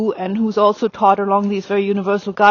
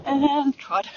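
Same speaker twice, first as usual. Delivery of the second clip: long high "and", soft falling TROT; downward transition command; 4 semitones higher, 6 dB quieter than usual. Shown as a demonstration. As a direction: stretch "and", then drop softly onto "trot". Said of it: "my voice goes down".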